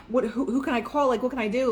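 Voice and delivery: a touch of frantic worry; mock anxious fretting. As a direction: play the panicky version of yourself you weren't. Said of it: "I didn't sit there and dwell about it".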